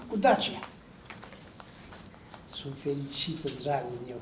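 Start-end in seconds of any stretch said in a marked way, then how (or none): 2.5-4.2 soft, low murmur of contentment; tender. Acted. Wife soothing her dear husband, tender and soft. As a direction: caress them with hushed, happy words. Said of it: "Continuă să-l mângâie Nineta".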